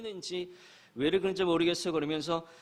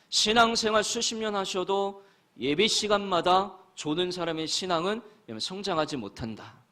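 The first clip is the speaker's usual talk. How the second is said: emphatic preaching; 5 semitones higher, 6 dB louder than usual. Real, not acted. Preacher pressing a point.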